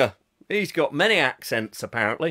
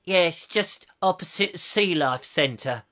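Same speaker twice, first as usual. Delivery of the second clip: slow, unimpressed British understatement; downplayed; slower than usual. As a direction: make it sound like nothing special. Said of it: "gets really downplayed".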